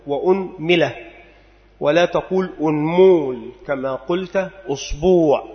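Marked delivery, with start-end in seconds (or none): 0.1-0.9 أنملة with damma on the hamza and kasra on the mim, unmila; vowel demo. Shown as a demonstration. Teacher listing the variant for students, careful unmila. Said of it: "ثالثا ضم الهمزة".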